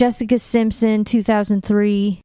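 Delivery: light Southern twang; Southern accent. Real, not acted. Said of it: "I keep talking in a Southern accent".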